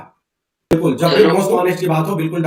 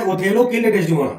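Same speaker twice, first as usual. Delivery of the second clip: "Othello killed Desdemona" read slowly word by word; measured dictation; 3 semitones higher, much slower than usual. Shown as a demonstration. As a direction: spell it out for note-taking. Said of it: "spelling देख लेना".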